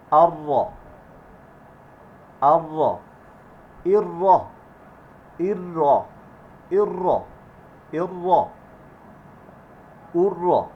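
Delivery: heavy, full doubled R in "র". Shown as a demonstration. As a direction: say "র" with a thick, rolled double R. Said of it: "সেটা মোটা হবে". ("র" মোটা করে উচ্চারণ)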